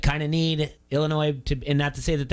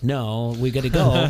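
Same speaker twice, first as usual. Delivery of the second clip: excited; 5 dB louder, slower than usual. Retold or imitated. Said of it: "You got really excited".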